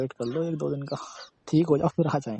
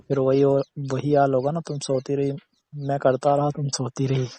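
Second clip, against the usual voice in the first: louder, teasing grumble; playful complaint; 7 dB louder than usual. Real, not acted. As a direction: protest loudly but in fun. Teasing complaint about unanswered calls. (ज़ोर से, छेड़ते हुए शिकायत)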